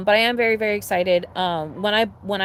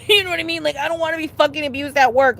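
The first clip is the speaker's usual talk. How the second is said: higher and louder, laughing through it; laughing, pitched up and louder; laughing repeat; 7 semitones higher, 5 dB louder than usual. Real, not acted. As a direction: throw the line back with a laugh.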